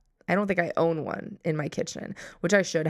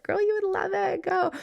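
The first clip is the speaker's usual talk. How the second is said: friend's voice; 14 semitones higher than usual. Retold or imitated. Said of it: "a friend from Oregon that's like".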